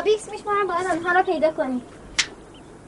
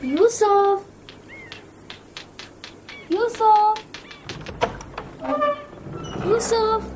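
calling out; much slower than usual. Acted. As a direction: call out across the yard. Children calling for missing Yusuf.

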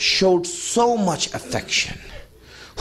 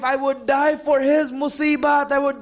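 impassioned cry; 3 semitones higher than usual. Real, not acted. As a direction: stretch every word out with full fervour. Impassioned peak of the sermon.

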